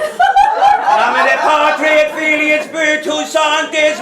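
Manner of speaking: latin blessing. Acted. Priest blessing mouth in Latin.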